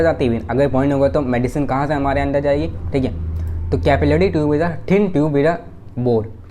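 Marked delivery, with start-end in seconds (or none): 3.8-6.5 slow, word by word for notes; measured dictation pace. Shown as a demonstration. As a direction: dictate it so students can write.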